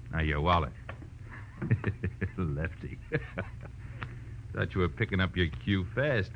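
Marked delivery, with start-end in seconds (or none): 0.8-2.3 mocking chuckle. Thug going through detective's wallet, mocking chuckle. 3.0-4.5 very soft, breath-only snicker; mocking chuckle. Thug amused by detective's Lefty bluff, mocking chuckle.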